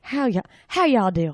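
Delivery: slow, lightly imitated Southern drawl; Southern accent. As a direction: echo the greeting with a Southern drawl. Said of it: "Oh, the South".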